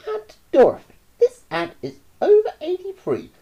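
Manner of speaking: put-on high, loud boy's shout. Roy shouts at the starving anteater, bratty. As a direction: yell it down as a bratty boy.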